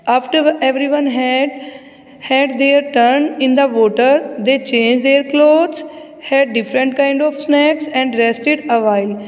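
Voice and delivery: very slow, word-by-word reading; measured classroom reading with drawn-out words; textbook read-aloud. Acted. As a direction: read it out slowly for young pupils. Reads textbook aloud slowly.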